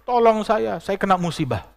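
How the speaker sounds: high, loud mock wail; imitated tearful plea. Weeping mother begging a sheikh for help, imitated wail. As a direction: plead as if crying, pitched well up. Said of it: "Dia nangis, bilang".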